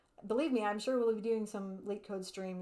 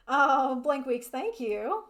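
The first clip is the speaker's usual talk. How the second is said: excited; 3 semitones higher, 9 dB louder, much slower than usual. Real, not acted. Delighted reply to a chat message.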